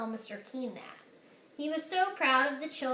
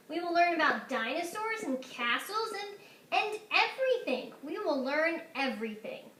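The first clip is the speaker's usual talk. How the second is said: excited listing; 4 semitones higher than usual. Acted. Headmaster's excited list.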